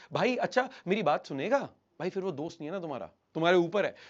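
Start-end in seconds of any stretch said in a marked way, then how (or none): 0.1-1.6 mock-tentative question to a friend; mildly pleading lilt; seeking rapport. Shown as a demonstration. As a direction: ask as if needing permission. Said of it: "friend से ऐसे तो नहीं बात करते".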